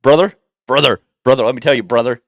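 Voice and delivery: put-on New York wrestling-guy accent; attempted New York accent. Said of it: "I can't do a New York accent".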